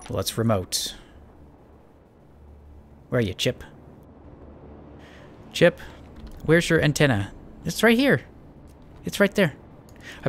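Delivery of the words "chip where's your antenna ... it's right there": high-pitched, exasperated insistence. Real, not acted. Player insists the missing antenna is there, exasperated and high. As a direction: point out the obvious, voice pitched up. Baffled by antenna not showing up.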